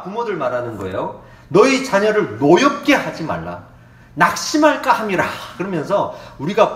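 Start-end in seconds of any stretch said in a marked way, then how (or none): 1.5-5.2 louder, declaiming Bible reading; solemn loud scripture read. Acted. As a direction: proclaim the verses to the congregation. Reads scripture aloud.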